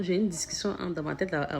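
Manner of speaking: ordinary talk, nothing marked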